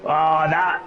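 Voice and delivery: halting try at Cockney; attempted Cockney accent. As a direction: feel your way into a Cockney accent. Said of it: "Are you gonna go full Cockney".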